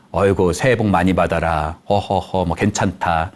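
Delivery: low, easygoing grandfatherly well-wishing; generous grandfather. Acted. Grandfather giving New Year blessings, relaxed and generous. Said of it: "할아버지들은 넉넉하게".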